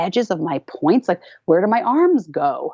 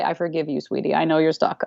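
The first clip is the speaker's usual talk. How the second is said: gentle, slightly lower self-talk; self-forgiving; 3 semitones lower than usual. Shown as a demonstration. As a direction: soothe yourself tenderly. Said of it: "I touch my heart and I say".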